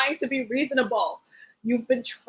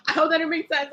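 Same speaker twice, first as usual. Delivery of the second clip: laughing; 4 semitones higher, faster than usual. Real, not acted. Repeat with a laugh.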